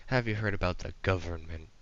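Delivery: lightly voiced robotic monotone; a half-hearted go at a robot voice; attempted monotone robot. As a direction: try an even, mechanical delivery. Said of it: "trying to do, like, a monotone robotic voice".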